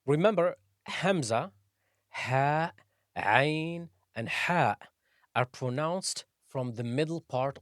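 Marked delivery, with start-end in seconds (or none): none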